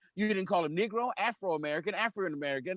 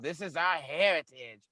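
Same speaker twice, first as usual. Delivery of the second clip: lightly voiced Southern white man claiming his heritage; Southern racist, imitated. White Southerner defending his legacy to a Black man, mock Southern voice. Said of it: "That's their legacy in the South".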